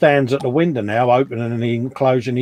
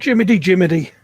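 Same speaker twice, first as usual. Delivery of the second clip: put-on old man noises; 6 semitones higher, 5 dB louder, faster than usual. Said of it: "Old, old man noises there".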